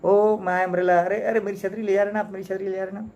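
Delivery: indignant owner confronting a thief; stern anger. Retold or imitated. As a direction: scold him sharply, voice lifted. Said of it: "sternly, बड़े गुस्से से क्या बोला".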